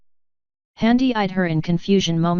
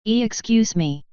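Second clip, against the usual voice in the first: a flustered, higher-pitched half exclamation, offended and alarmed at once; half exclaimed; 4 semitones higher than usual. A narrator's reading. Griffin calls after the noble who snubbed her, startled and offended. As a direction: catch your breath mid-word, caught between offence and alarm. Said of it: "she half exclaimed, voice midway between an offended gasp and alarmed surprise".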